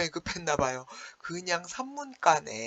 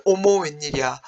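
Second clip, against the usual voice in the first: mock surprise; 7 dB louder than usual. Teacher mimicking Heungbo's shock at the camp, mock surprise. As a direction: act out being startled for the class.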